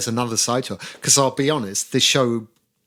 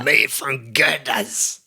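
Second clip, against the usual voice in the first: ad slogan voice; much slower than usual. Retold or imitated. Quoting old ad slogan.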